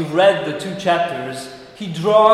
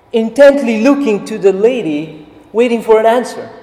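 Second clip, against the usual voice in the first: ordinary talk, nothing marked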